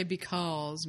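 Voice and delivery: "because" with a Southern drawled aw. Shown as a demonstration. Co-host guessing how a Southerner says it, Southern "because". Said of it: "If he was Southern, he would say".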